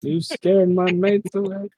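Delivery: high, whiny complaint; indignant lion. Acted. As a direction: whine it like an offended lion. GM repeats it, higher.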